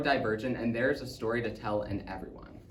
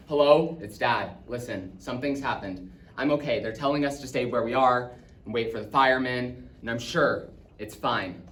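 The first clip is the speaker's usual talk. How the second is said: louder hello, settling into steady reassurance; reassuring father; 4 dB louder than usual. Acted. Dad leaving a phone message from danger, reassuring. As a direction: keep it controlled so the family won't worry, softening at the end.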